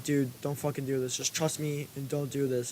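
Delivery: imitated classroom undertone; retold hushed warning. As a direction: quietly act out warning a friend off. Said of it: "He's, like, whispering this".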